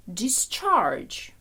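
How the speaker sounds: Discharge stressed on the second syllable; dis-CHARGE, weight on the last syllable; verb stress. Shown as a demonstration. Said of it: "коли дієслово ми кажемо discharge".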